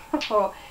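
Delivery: short embarrassed giggle; a little laugh at herself; laughs at own accent. Real, not acted. (petit rire gêné)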